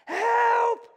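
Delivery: high, loud yell for help; screaming for help. Retold or imitated. Peter yelling to his partners as the nets tear, a loud high shout. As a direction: yell it across the water. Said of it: "he screamed out".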